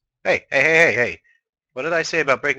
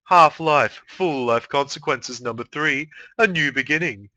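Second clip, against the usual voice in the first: fighting game announcer. Acted. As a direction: announce the title like a fight intro. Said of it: "Announcer Voice".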